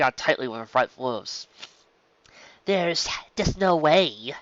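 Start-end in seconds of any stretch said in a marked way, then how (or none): 2.6-4.3 objecting filly. Acted. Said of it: "Silver Spoon objected".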